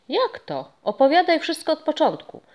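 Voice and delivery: can't wait to hear it; eager begging. Acted. Boy urging the ghost to tell the whole story, excited.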